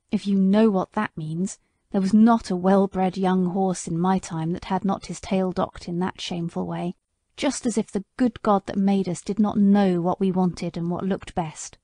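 a hint of a wounded old horse remembering; bitter old horse. Sir Oliver on fashion.

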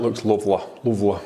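looks lovely in a light Yorkshire accent, lovely said as luvly. Shown as a demonstration. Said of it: "If you say it in a Yorkshire accent".

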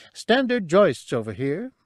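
high little alien voice; small creature voice. Acted. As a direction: pitch it up for a tiny creature. Cabe's lines.

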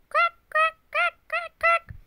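very high, loud, short cracks; rapid high-pitched cracking; sound-effect words. A narrator's reading. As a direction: squeak out each crack like breaking eggs. Acting out eggs cracking.

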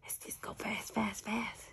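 hushed quoting herself; soft whispered aside; whispered quote. Retold or imitated. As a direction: whisper her own words. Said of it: "But I say".

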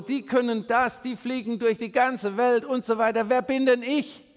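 the youngest son listing every reason he can't; whiny Gideon. Acted. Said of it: "rief Gideon".

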